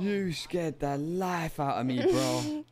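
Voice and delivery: startled and shaken; jump-scared, voice jumping up. Real, not acted. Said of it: "I'm shook, bro".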